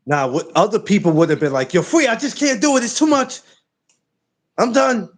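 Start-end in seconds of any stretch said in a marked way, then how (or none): 1.7-5.1 whiny quitter voice. Retold or imitated.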